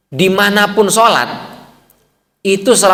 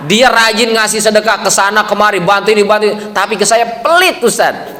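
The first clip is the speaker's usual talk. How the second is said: lightly acted, raised-pitch grievance; wife's mock complaint; 5 semitones higher than usual. Wife complaining to the ustaz about her husband, mock indignant. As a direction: imitate a wife telling on her stingy husband.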